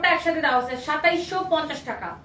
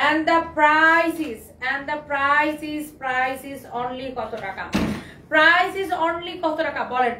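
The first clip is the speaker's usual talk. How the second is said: teasing slow build-up; much slower than usual. Real, not acted. Seller teasing viewers before revealing the price, very slow. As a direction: drag out each word to tease the price.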